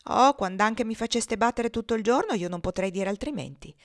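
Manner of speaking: mildly put-on tearful protest; mock-weepy plea; pretending to cry. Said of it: "facendo le viste di piangere".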